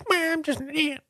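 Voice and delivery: a meek ant pleading its case; tiny ant voice. Pretend. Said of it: "and they say".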